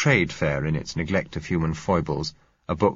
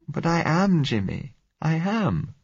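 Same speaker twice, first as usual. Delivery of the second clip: put-on higher, pleading scared girl's voice; frightened young girl; 11 semitones higher, slower than usual. A narrator's reading. Blind girl begging Jimmy not to leave, frightened. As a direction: plead with him, fear rising.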